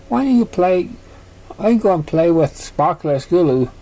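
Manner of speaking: a filly standing up for her mum; lightly voiced filly. Dinky voiced as child.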